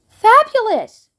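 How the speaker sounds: high, slow thrilled shout; delighted shout. A narrator's reading. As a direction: cry it out with glee. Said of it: "shouted Violet".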